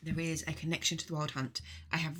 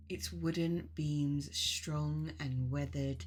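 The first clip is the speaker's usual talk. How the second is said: guided meditation. Acted. Leading listeners on a journey to the mead hall, guided meditation. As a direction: guide listeners unhurriedly, phrase by phrase.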